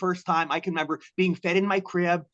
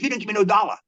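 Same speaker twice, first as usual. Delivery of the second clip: higher, emphatic denial with a hint of street hustler; lightly voiced street hustler; 4 semitones higher, 4 dB louder, faster than usual. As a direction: lightly imitate a hustler denying it. Acted hustler denying he got money.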